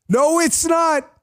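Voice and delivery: high, slow, drawn-out mocking voice; mock denial. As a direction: stretch each word out in a silly high voice.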